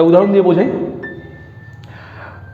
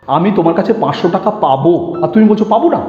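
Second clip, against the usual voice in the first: পাবো punched as the disputed word; stress on পাবো. Shown as a demonstration. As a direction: lean on পাবো, set it apart. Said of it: "পাবোর উপরে জোর দেব".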